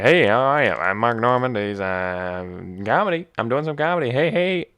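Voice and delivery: loud, high, hammed-up comic impression; Mark Norman. Comedian introduces himself and greets crowd, high, loud impression. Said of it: "Where Mark Norman's like".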